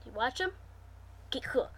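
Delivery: quick hushed okay; whispered aside. Real, not acted. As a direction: drop to a whisper for a beat.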